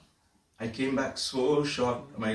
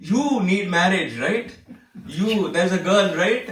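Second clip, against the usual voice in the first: much higher and louder, laughing as he teases; teasing Swami; 8 semitones higher, 8 dB louder than usual. Retold or imitated. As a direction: tease him knowingly about the girl, loud and high. Swami teasing about marriage.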